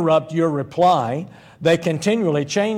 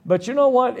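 emphatic preacher rise; 8 semitones higher than usual. Real, not acted.

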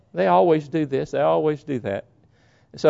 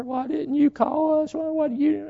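scolding; 11 semitones higher, 4 dB quieter than usual. Retold or imitated. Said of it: "My sister jumped all over her".

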